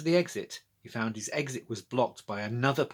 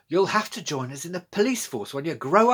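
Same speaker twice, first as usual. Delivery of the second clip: hearty praise; 6 semitones higher, 6 dB louder than usual. A narrator's reading. Policewoman praising Georgia.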